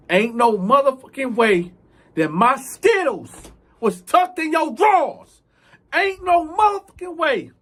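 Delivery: furious that he hid them; outraged. Retold or imitated. Inmate furious at the thief, loud and high.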